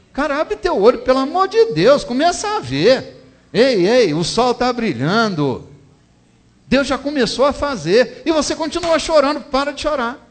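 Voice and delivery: high, loud, urging sermon cry; fiery preaching. Acted. Preacher shouts at the grieving listener to stop crying, loud and high. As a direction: shake the congregation awake.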